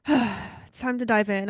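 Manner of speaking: breathless and sighing; winded, slow and sighing; out of breath. Real, not acted. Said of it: "I'm already out of breath".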